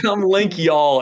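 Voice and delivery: a hint of Southern drawl; Southern accent. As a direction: tease with a light Southern twang. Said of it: "you have this Southern accent".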